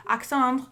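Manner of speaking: Alexandre said the French way; French pronunciation. Pretend. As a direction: say Alexandre as if French, ending softened to "-ahndr". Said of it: "I speak French".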